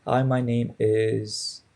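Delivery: drawn-out, hesitant hi my name is; slow mock self-intro. Shown as a demonstration. Student mumbling a first try at an intro. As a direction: start the intro slowly, unsure. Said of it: "I'm sorry, it went like".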